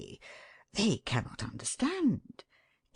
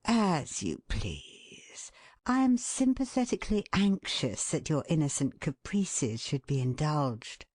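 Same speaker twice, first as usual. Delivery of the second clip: indulgent sympathy. Shown as a demonstration. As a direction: humour her gently. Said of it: "your tone whether you convey".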